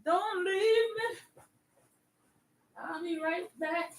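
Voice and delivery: slow, high mock plea; playful plea. Real, not acted. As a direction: beg viewers not to go. Stepping away from the stream.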